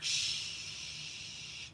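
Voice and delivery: long unvoiced hiss; static-like shushing noise. Wife imitates how husband's work talk sounds, long hissing noise. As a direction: hold a steady white-noise shh. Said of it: "That's what it sounds like to me".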